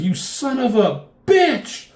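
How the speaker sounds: high, drawn-out mock yell; furious battle cry. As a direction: act out an outraged attack, loud and slow. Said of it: "She comes flying at him".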